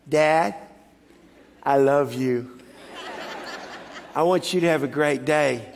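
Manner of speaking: slow, low, heartfelt words to dad; tender son. Retold or imitated. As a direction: tell your father you love him, low and sincere. Son tenderly addresses father face to face.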